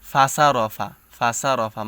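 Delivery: ফাসা said with a plain s like সিন; wrong s sound. Shown as a demonstration. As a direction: demonstrate the common mistake, ফাসা with a light s. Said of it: "সদের উচ্চারণটা সিনের মতো করে ফেলি".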